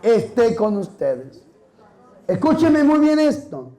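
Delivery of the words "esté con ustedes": slow greeting of peace, pausing midway; measured blessing with a held pause; priestly greeting. Acted. Priest quoting how the Lord greeted, slow and measured. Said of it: "Así saludó el Señor".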